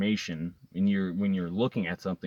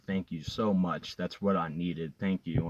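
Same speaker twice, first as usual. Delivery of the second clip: retold tearful thanks; 3 semitones lower, 4 dB quieter than usual. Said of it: "I was still just crying".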